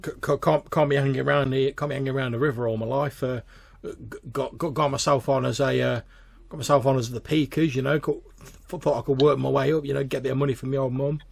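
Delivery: a hint of a nervous stammering lad; stammering peaker. Billy explains his new job to Mick, nervously stammering.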